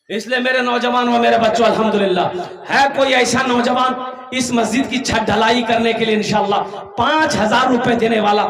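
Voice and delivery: forceful fundraising call from the pulpit; rally the crowd, driving each phrase; rallying appeal. Acted. Preacher asks young men to fund the mosque roof, rallying appeal.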